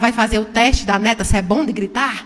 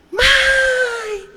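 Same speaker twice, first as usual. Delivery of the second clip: shouted back; 13 semitones higher than usual. Retold or imitated. Son answering his mother from a distance, high shout. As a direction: yell it back from far off. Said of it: "Deu um grito".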